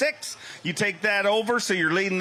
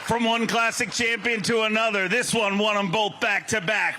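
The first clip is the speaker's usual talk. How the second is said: booming hype-up intro that slows on the name; arena announcer. Acted. Announcer hyping the crowd for the champion, booming intro.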